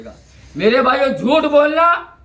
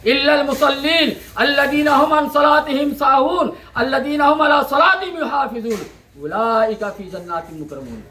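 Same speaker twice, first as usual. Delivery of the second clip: Quranic recitation. Acted. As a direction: recite the Arabic verse in a measured, intoned chant. Quranic verse recited in sermon. (क़ुरआन की तिलावत, सुर में पढ़ना)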